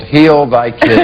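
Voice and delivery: put-on "Heal Thy Kids" split as three words; "Heal" and "Thy" each given full weight; misread title. Shown as a demonstration. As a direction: say "Heal Thy" as two solemn words, not "Healthy". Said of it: "I always interpret that, Heal Thy Kids".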